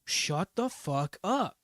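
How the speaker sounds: slow, drawn-out put-on command; firm command. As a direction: stretch it out slowly, commanding. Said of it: "you do have to be like".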